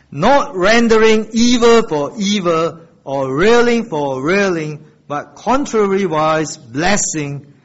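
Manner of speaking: deliberate, emphatic verse reading for a congregation; scripture read aloud. Acted. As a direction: lead a group through the verse, strong at first.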